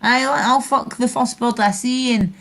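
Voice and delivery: lampoon the lads' Scottish banter; mocking Scottish lads. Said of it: "Aye, and that's the way they talk".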